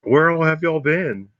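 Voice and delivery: American Southern. Acted. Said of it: "can you do an American accent?".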